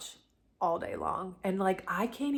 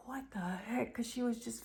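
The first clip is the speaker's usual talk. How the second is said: a hushed, breathless whisper; imitated whisper; 4 semitones higher, 10 dB quieter than usual. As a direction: whisper it as the startled family. Family rushing in, confused.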